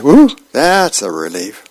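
whew of mock relief; lightly played sigh of relief; acted relief. Dagwood to Blondie after learning it was no argument, relieved.

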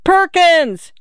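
high, drawn-out searching yell; high-pitched call into the distance. A narrator's reading. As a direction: yell the name, pitch falling at the end. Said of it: "she yelled".

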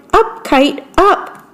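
high, eager call to the kite, pitch climbing on the last up; shouting up at the kite. Acted. Toad, jumping in the meadow, calls his kite up with a high, rising shout. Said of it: "He shouted".

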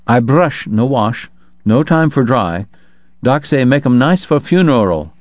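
lightly voiced Chinese laundryman. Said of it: "a promise from the laundryman".

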